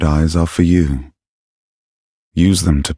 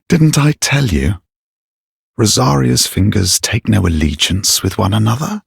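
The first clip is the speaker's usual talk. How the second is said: high-pitched indignant retort; indignant justification; 5 semitones higher than usual. Acted. Knight explaining the fingers' lack of allegiance, indignant. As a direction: justify yourself, pitch raised.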